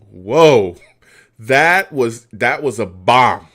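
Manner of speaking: loud, awed reaction to a huge throw; excited whoa. Real, not acted. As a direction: blurt out the shock of the play. Reacting to overthrown bomb.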